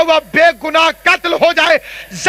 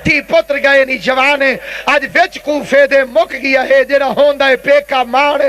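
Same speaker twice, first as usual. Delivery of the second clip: Zainab's tearful lament. Retold or imitated. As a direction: declaim the verse as a weeping lament. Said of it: "رو رو کے زینب فرماتی ہے".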